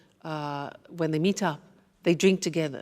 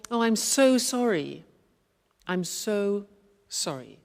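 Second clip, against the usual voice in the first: sorrowful. Shown as a demonstration.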